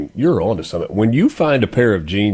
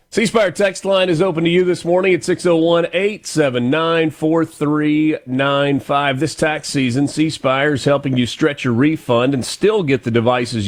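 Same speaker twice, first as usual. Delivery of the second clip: radio sponsor read, starting higher; 4 semitones higher than usual. Real, not acted. Host reading the phone company's promotion, ad-read delivery. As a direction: read out the offer like a sponsor spot.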